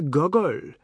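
Gogol said as a throaty gargle; gargled Gogol. A narrator's reading. Oad impressing the sisters, Gogol gargled. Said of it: "It sounded like a gargle".

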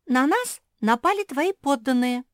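high, loud little-sister complaint; complaining. A narrator's reading. Youngest sister complains to William, high and whining. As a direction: whine about the attack. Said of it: "начала жаловаться".

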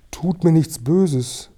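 high, drawn-out frightened plea; fearful pleading. A narrator's reading. Old man begging intruders not to hurt him, frightened. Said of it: "als fürchtete er sich".

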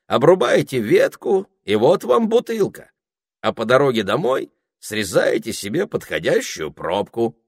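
high, bright-eyed parrot showing off his world; chatty parrot voice. A narrator's reading. Parrot boasting to the children, high and chatty. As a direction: talk up high like a proud little bird. Parrot explains bottle trees.

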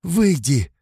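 high, loud order; stern command. A narrator's reading. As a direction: order him out sharply. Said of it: "строго приказала я". (строгий приказ)

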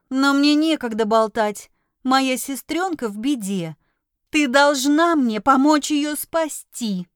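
loud, slow, pleading outburst; blurted, almost shouting. Acted. To the witch, the girl nearly shouts for her sister. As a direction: push out the last words nearly yelling. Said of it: "выпалила, почти прокричав".

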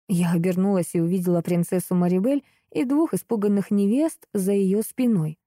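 ordinary delivery, nothing marked

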